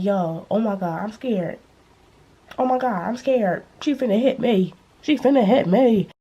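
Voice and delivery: hammed-up fake fear, teasing; mock scared. Teenager trolling a classmate who wants to fight, mock-frightened. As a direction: pretend to be terrified to troll her. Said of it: "And I started trolling her".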